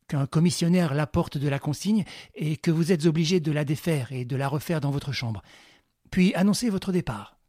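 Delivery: a lightly voiced confident ringleader; Lupin giving orders. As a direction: bark out instructions to your men. Lupin instructs Clarisse.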